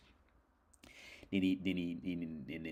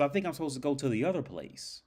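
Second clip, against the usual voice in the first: high-pitched mock pleading to leave; imitated doubting robber; 8 semitones higher than usual. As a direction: act the misfit robber, voice raised high. Robber asks for the other place.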